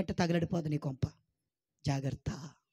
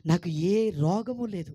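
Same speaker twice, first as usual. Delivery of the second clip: very slow, loud declaration; slow, emphatic model declaration; slow confession; 6 dB louder, much slower than usual. Shown as a demonstration. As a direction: proclaim each word slowly for them to repeat. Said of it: "పలకరే అమ్మా".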